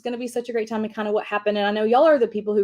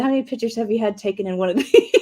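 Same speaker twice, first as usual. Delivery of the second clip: laughing question; 2 semitones higher, 3 dB louder, faster than usual. Retold or imitated. Joking with the hospital guy.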